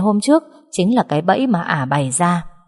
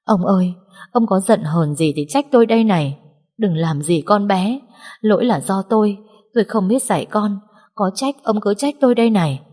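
pleading lament; 3 semitones higher than usual. Acted. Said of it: "quỳ rạp xuống mà van vái".

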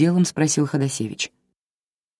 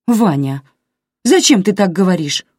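gently reproachful; 5 semitones higher, 6 dB louder than usual. A narrator's reading. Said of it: "укорила жена".

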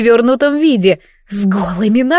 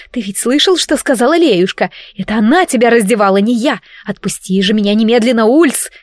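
hissing. Acted. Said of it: "шипела я".

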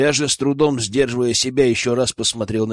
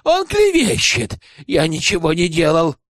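much higher, pleading cry; a high, panicky protest; desperate wail; 3 semitones higher than usual. Acted. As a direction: howl that it's slander. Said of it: "завопил Тихомир".

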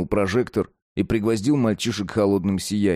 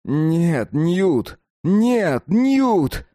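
rising from urgent to screaming; building to a scream; 9 semitones higher, 4 dB louder, much slower than usual. Acted. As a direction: scream him into silence. Max stopping Newt, escalating.

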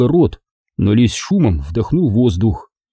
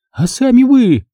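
high, louder shriek; 13 semitones higher, 3 dB louder than usual. A narrator's reading. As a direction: snap it straight back at him. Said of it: "взвизгнула она".

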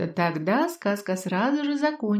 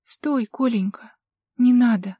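hoarse. Acted. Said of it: "прохрипела она".

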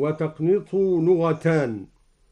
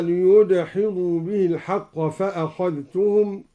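Quran recitation; 3 dB louder than usual. Shown as a demonstration. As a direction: recite with measured melody. Recites verse before demo. (تلاوة مجودة)

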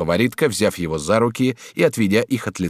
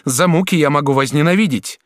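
put-on passionate, higher duchess voice pleading with her young lover; 8 semitones higher, 5 dB louder than usual. A narrator's reading. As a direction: lure him with tender promises. Duchess threatens. (герцогиня страстно уговаривает юношу)

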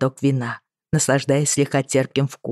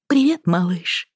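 cooing; 4 semitones higher than usual. Acted. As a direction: coo gently to the baby. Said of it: "проворковала Бри".

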